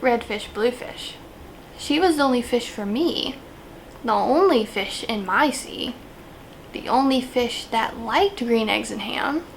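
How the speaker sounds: lightly hammed-up poetry recital; mock slam poetry. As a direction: recite it like a slam poet, pausing between lines. Performs improvised mock slam poem.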